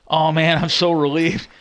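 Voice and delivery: loud, acted-out sigh-of-relief line; retold gush of relief; imitated relief. Acting out landlord's relieved reaction.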